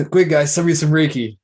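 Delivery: coughing up water. Real, not acted. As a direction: push words out between coughs. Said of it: "Just went down the wrong way".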